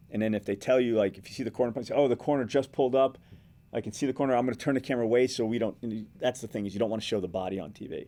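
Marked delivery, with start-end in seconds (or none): 1.9-5.7 demonstrating a live on-air update; reporter's delivery, a touch louder; live reporter stand-up. Shown as a demonstration. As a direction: narrate the scene live to camera. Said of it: "as far as reporting on it".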